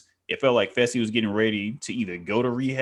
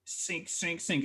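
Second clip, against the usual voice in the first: whispered; 7 semitones higher, 11 dB quieter, much slower than usual. Retold or imitated. Whispered inner voice, sinking.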